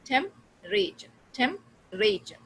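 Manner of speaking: slow "temperature" as temp-ra-ture; "temperature" squeezed to three syllables; reduced temperature. Shown as a demonstration. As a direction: drop the syllable in "temperature", slowly. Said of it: "no, temperature".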